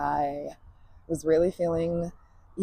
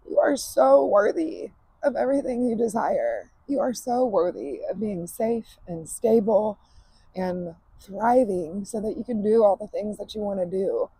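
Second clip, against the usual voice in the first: tearful, emotional; 4 semitones higher than usual. Real, not acted. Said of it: "in a completely raw state".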